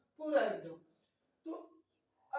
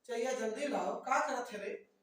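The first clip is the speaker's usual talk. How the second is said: impatient yell; 4 dB louder than usual. Retold or imitated. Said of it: "एकदम चिल्ला रहा है".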